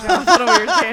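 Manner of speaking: loud, fast laughing comment. Real, not acted. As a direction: laugh it out quickly. Laughing remark.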